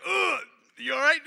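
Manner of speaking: loud, high shout checking on people; calling out. Retold or imitated. Father shouting down the hill after the crash, loud and high. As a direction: yell out to see if they're all right.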